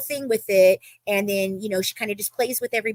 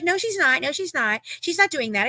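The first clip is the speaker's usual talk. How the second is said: raised-pitch mimicked denial; insistent denial; 6 semitones higher than usual. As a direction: imitate someone repeatedly denying it. Acting Jasmine's denial in retold argument.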